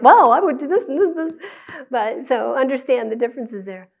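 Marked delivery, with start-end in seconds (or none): 0.0-1.9 put-on higher, louder eager girl voice; a daughter eagerly giving her parent advice. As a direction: pipe up like a keen daughter with answers. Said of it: "the girl's gonna be like".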